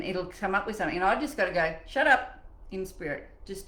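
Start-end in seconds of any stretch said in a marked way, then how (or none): 1.9-2.4 louder, higher mock command; sudden sharp retort; firm silencing. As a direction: shut down an inner critic. Acts out silencing her inner critic.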